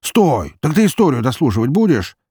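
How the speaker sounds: loud, high protest; indignant, high-pitched call; calling after someone. A narrator's reading. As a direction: stop a friend who is leaving. Calling after departing friend.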